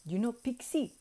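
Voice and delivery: accented wizard impression, lightly voiced; a hint of the accented mentor; imitated wizard. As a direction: gently explain in an imitated accent. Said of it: "he was like".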